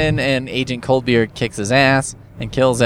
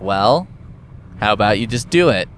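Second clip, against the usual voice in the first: lower, offhand voice, quick; dismissive pilots; 5 semitones lower than usual. Retold or imitated. Pilots telling Agent Coldbeer to jump, lower and offhand. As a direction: play the pilots shrugging him off. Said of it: "And they say, like".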